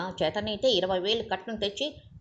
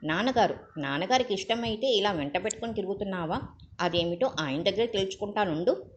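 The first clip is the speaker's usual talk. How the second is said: seething; 3 dB louder than usual. Acted. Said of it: "Raghu ఉడికిపోయాడు".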